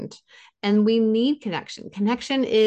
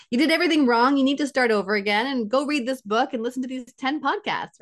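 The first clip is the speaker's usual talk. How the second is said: harsh critic at work; 5 semitones higher, faster than usual. Retold or imitated. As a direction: scold a colleague who did it all wrong.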